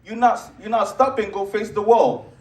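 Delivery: acted stern mother, a touch of anger; pissed mom. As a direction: imitate a mom who has had enough, slowing on the final order. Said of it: "the mom looks at Timmy pissed".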